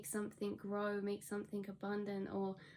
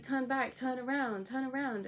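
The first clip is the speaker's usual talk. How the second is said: half-shouted pleading, a bit louder and higher; retold scream; 3 semitones higher, 4 dB louder than usual. Dreamer yelling at universe driving past, mock scream. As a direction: call after the passing car, mock desperate. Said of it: "you're screaming at them".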